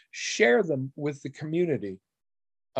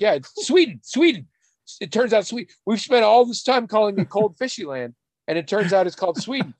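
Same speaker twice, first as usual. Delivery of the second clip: retold excited realization; 8 semitones higher, 3 dB louder than usual. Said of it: "It's like".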